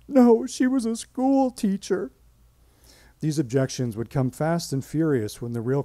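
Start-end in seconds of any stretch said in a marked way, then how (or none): 0.1-2.1 high, slow, offended protest; indignant relative. Retold or imitated. Relative objecting to the tissue bank caller, offended and slow. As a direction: bristle at the question, drawn out.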